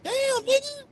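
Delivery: high, slow, stretched-out damn; drawn-out shocked exclaim. Real, not acted. Shocked reaction to begging pastor.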